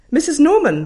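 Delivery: teacher calling a parent on the phone; loud teacher voice. Retold or imitated. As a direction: bark the name cheerfully. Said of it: "said Missus Kelvin".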